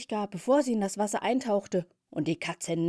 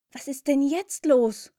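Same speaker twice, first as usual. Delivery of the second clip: startled; 8 semitones higher, 7 dB louder than usual. Acted. Sudden screaming over the lake.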